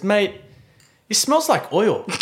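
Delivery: high-pitched, mildly indignant mimicry; flustered, angry buyer. Buyer griping to the seller about the car, mock indignant. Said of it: "just so flustered and angry".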